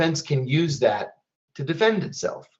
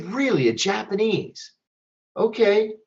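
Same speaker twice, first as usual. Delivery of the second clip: high, raised mock surprise; lightly voiced surprised officer, pitched up; 7 semitones higher than usual. Security officer surprised by Japanese pitch.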